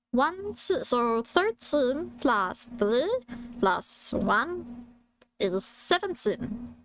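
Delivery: lightly voiced British cartoon alien; Stitch. Lecturer giving band facts as British Stitch, half-managed. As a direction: attempt a creature voice with swooping British intonation. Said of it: "imagine Stitch being a short K-pop stan after studying in Britain".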